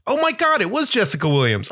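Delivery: sudden high-pitched oh my God; surprised. Real, not acted. Realizing the actress was Jessica Williams, high surprised exclamation.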